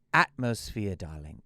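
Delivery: lightly put-on English accent, "darling" dropped low; a hint of an English accent, airy and grand; mock English accent. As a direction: play the Philly actress faking an English accent. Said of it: "she was English accent".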